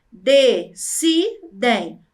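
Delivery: very slow "Decidem" with gaps between syllables. Shown as a demonstration. Teacher demonstrating three syllables, slowly separated. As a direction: chop "Decidem" into three drawn-out beats. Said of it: "Vejam, ó".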